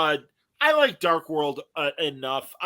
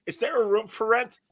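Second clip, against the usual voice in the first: imitating Janet Leigh; 7 semitones higher than usual. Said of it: "like Janet Leigh".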